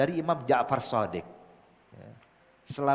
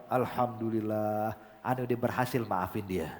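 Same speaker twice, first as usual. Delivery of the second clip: relieved, heartfelt; 5 semitones lower, 4 dB quieter than usual. Retold or imitated. Habib relieved after forgiving.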